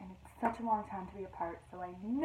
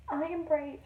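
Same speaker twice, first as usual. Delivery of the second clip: unsure self-reassurance; 6 semitones higher, 5 dB louder, slower than usual. Acted. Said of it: "tried to convince herself".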